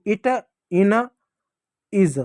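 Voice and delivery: "इट, इन, इज" each with a short i; spaced-out teaching demo of short i in "इट, इन, इज". Shown as a demonstration. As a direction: say "इट, इन, इज" separately, brief i in each. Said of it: "आई का छोटी की मात्रा".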